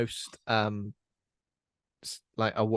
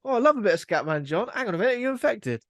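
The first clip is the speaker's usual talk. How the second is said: mock zombie fan; 10 semitones higher, 3 dB louder than usual. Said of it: "It was just".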